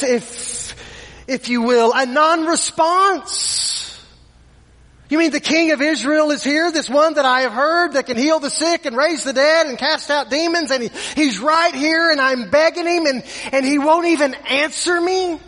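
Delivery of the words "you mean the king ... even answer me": a mildly voiced woman who can't believe he won't answer; incredulous disbelief. Ignored mother asking herself why the king stays silent, hurt disbelief.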